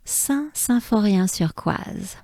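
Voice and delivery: native French place-name pronunciation. Shown as a demonstration. Teacher naming the stage start for French speakers, French pronunciation. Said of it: "saying all the names of this stage".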